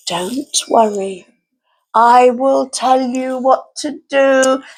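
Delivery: low, slow and soothing; calm reassurance. Acted. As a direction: soothe her slowly. Mother reassures slowly.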